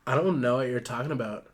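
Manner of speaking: a hint of Valley Girl. Ruth answers Benny again, light Valley Girl voice. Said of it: "Oh, Valley Girl voice".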